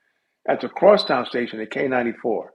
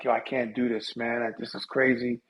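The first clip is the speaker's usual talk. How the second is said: despairing to himself; 3 semitones lower, 8 dB quieter than usual. Retold or imitated.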